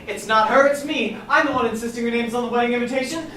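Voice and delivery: heated, emphatic self-defence; shouted insistence. Acted. Catherine taking the blame for the invitation, shouting. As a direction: raise your voice and insist. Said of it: "Catherine shouted".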